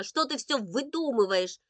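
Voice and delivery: exasperated cry; indignant shout. A narrator's reading. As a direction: shout at a brother telling tall tales. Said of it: "закричала она".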